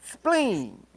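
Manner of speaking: trucker calling out on a CB; over walkie talkie. Pretend. Mock CB radio call.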